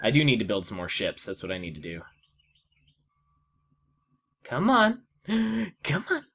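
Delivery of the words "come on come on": eager urging. Real, not acted. Urging the game on.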